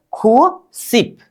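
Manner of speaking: खूसिप drawn out, falling at the end; slow demo. Shown as a demonstration. Teacher repeating ninety slowly for pupils. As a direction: say खूसिप slowly and let it fall. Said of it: "अब इसका उच्चारण क्या करेंगे?".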